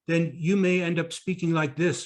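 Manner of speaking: demonstrating speech through a tight, barely moving mouth; tight-faced speech. Shown as a demonstration. Coach warning speakers, demonstrating tight-faced speech. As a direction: talk with the face held tight. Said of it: "if your face is tight".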